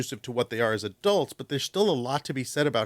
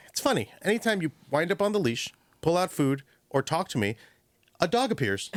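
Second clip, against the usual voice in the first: higher, knowing voice for the dog; dog's voice; 5 semitones higher than usual. Retold or imitated. Dog explaining its owner's habits, wry higher voice. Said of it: "my dog goes".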